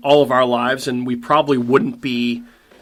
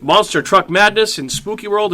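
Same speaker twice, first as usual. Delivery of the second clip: monster truck ad; 6 semitones higher than usual. Acted. Monster truck ad spoof continues.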